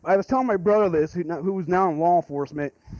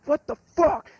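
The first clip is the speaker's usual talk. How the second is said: much higher, scared shriek; startled scream; 10 semitones higher, slower than usual. Retold or imitated. Friends seeing a white figure in the dark, retold frightened scream. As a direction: shriek it like a ghost just walked in. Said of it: "We're all screaming".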